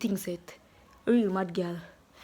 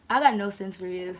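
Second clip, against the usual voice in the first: said out loud, punching got; full voice after the whisper; louder; 4 semitones lower, 4 dB louder than usual. Real, not acted. Repeated aloud after whisper.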